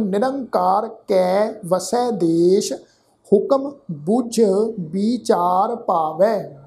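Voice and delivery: slow, deliberate chanting recitation; scripture recitation. Shown as a demonstration. Teacher recites Gurbani slowly to students. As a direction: lay out every syllable carefully.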